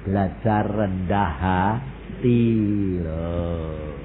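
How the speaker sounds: God gently telling the proud to be humble; gentle counsel from God. Retold or imitated. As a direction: say it slowly like a patient father. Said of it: "Tuhan bilang apa".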